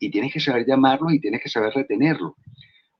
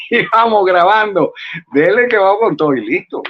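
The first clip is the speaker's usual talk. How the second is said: hurried director; 6 semitones higher, 5 dB louder than usual. Retold or imitated. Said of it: "mocking a rushed Venezuelan director".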